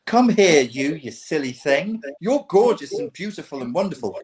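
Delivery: pretending to scoop up the sad girl and coo; mock doting comforter. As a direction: coo over her like a doting simp. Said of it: "be like".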